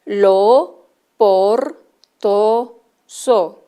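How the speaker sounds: tar, par, tan, dar each loud and separate; clear syllables. Shown as a demonstration. Teacher presenting syllables to children, loud and clear. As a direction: call out each syllable firmly. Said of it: "¿Cuál es la diferente?".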